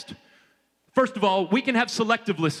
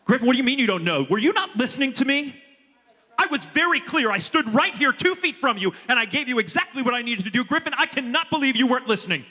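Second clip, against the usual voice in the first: raised, higher mock exasperation; mock scolding; 6 semitones higher than usual. Speaker on stage pretending to scold volunteer Griffin, mock exasperated. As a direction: pretend to blame the volunteer, hammed up.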